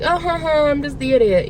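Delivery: high mock laugh, then self-deprecating. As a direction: fake a laugh and brush yourself off. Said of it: "I just laugh it off".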